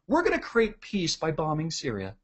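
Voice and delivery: soft, gentle sales voice; hushed put-on serenity; mock peaceful. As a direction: pitch it quietly, as if peaceful. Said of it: "they'll sell it really peaceful".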